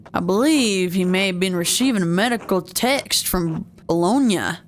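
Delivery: lightly put-on pirate monk. Monk tells Andreas all are well, light pirate voice. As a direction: give the monk a hint of pirate. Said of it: "let's give him a pirate t-, voice".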